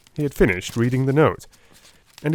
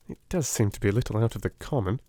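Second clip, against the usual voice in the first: calm remark; 5 dB quieter, faster than usual. Acted. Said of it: "he remarked calmly".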